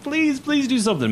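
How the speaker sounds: high, strained begging through pain; desperate plea. Acted. Mauled sailor begging Master Scourge for help, desperate and high. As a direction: beg him, holding back tears. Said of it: "he's screaming with pain".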